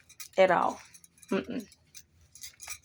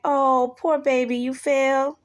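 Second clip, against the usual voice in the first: mock sympathy, raised a little; nice nasty; 4 semitones higher, slower than usual. Speaker voices someone faking pity for a fall, nice nasty. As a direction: coo with put-on pity. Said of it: "like, a nice nasty".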